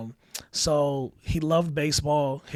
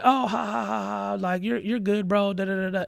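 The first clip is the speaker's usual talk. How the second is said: higher, careless fake laugh; mocking laugh-off; 5 semitones higher, 3 dB louder than usual. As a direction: shrug off the smack with a laugh. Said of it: "and they were like".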